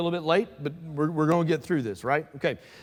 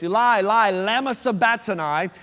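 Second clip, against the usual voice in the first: raised, louder cry to heaven; calling out loudly; 5 semitones higher, 4 dB louder than usual. A narrator's reading. Preacher reads Jesus' cry from the cross, calling out loudly. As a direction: cry it out like a scripture quote. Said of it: "Jesus called out with a loud voice".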